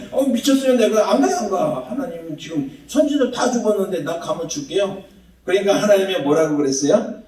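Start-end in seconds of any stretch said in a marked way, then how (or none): 0.1-5.0 mildly dramatized balking; acted emotional refusal. Preacher plays Elijah refusing God's order, mock protest. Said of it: "감정과 그런 분위기를 집어넣으면".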